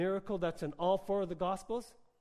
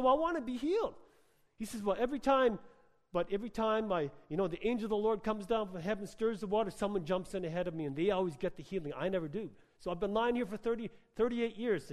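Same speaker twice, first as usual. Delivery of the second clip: higher, plaintive voice of the lame man; voicing the sick man; 4 semitones higher than usual. Lame man complaining to Jesus by the pool, higher plaintive voice. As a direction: whine it like a man who's waited for decades.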